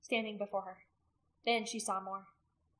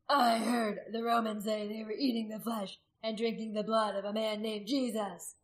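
crying out; 4 dB louder than usual. A narrator's reading. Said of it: "Gundred cried out".

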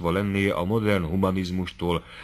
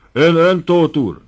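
shrill high screech, much louder; 9 semitones higher, 8 dB louder, slower than usual. Acted. Doctor screeching at Tóth over punch, high loud screech. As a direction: screech the name at him in a rage. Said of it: "rikácsolta a doktor".

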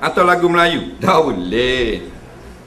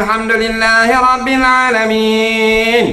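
higher Arabic-style recitation; Arabic accent; 3 semitones higher than usual. Shown as a demonstration. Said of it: "Awak Arab sekarang".

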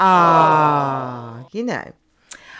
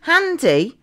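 much higher and slowed, savouring each word; 11 semitones higher than usual. Acted. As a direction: coo over the free parking like a treat. Delighted reaction to clip.

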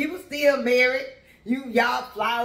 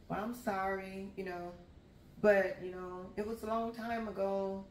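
lower, soft, hesitant consoling; awkward soft comfort; 4 semitones lower, 11 dB quieter than usual. Retold or imitated. Consoling the crying coworker, low and awkward. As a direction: pat her on the back with words.

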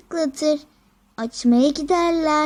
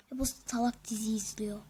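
whispering; 7 semitones lower, 13 dB quieter, faster than usual. Acted. Muttered aside.

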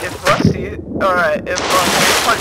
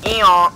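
imitated hiccup; 4 dB louder than usual. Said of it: "You're literally a donkey".

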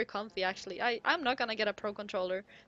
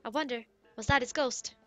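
put-on lightly accented game-character voice; chatty Goron, put-on accent; Goron villager; 3 dB louder than usual. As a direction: read it as a friendly Goron villager.

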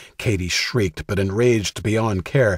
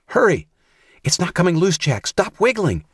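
frantic; 10 semitones higher than usual. A narrator's reading. Katie struggling with her brother's rope, frantic high. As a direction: fumble and panic, much higher.

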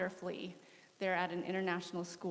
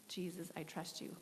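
softer, hushed repeat of "Jesus, I trust you"; quiet prayer; 7 dB quieter than usual. Retold or imitated. Reminding herself in prayer, said softer and hushed. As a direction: say "Jesus, I trust you" again under your breath. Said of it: "had to literally say to myself out loud".

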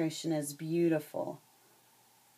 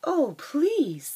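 higher and louder, pleading in fright; terrified mouse; 10 semitones higher, 6 dB louder than usual. Acted. Teacher voicing the frightened mouse begging the lion, higher pleading. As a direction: squeak out a panicked plea. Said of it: "the terrified mouse gasped".

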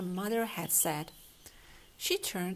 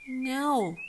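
a sharp raised cry, higher and louder; cried out; 5 semitones higher, 7 dB louder than usual. A narrator's reading. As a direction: blurt it out in distress. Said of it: "cried Jessica".

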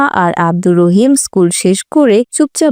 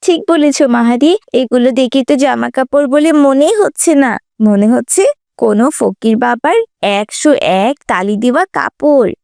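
mocking schoolgirl; 3 semitones higher than usual.

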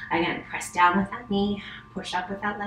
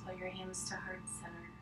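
soft, close meditation voice; right in your ear; 14 dB quieter than usual. Acted. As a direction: hush it down close to the mic. Closing relaxation, soft close voice.

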